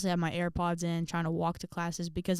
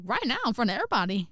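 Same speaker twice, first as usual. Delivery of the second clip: retold disbelief; 4 semitones higher, faster than usual. Balking at sudden request to sing.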